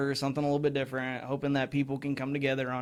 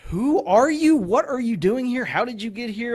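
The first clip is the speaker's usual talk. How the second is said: mock baffled questions; 8 semitones higher, 6 dB louder than usual. Mock questioning unknown candidate.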